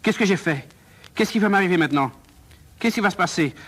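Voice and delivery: anxious questions tumbling out; worried, dawning alarm; panicked. Acted. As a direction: fret as the panic starts to rise. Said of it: "pris de panique".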